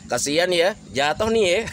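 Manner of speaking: mocking fake pity; gloating sing-song sympathy; high-tone teasing. Shown as a demonstration. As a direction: tease the fallen person, on the edge of laughing. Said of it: "Coba kalau nadanya tinggi".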